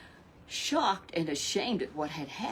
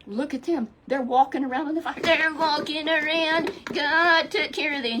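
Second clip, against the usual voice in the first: astonished high loud king; 8 semitones higher, 7 dB louder than usual. Acted. King sees boys in fire.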